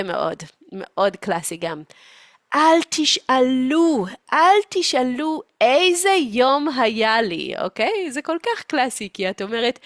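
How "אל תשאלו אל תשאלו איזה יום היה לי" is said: slow, high, loud lament; dramatic complaining mother. Acted. Mother wanting to be asked about her day, dramatic complaint. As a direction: drag it out for sympathy.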